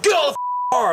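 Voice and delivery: high mock yell with gibberish; yelling cop. Cop ordering a guy out of the car, high imitated yell. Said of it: "And so he's yelling".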